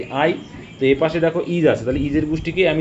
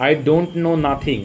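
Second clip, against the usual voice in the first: 1 slow read-out; much slower than usual. Shown as a demonstration. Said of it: "nothing দেওয়ার কোনো প্রয়োজন নেই".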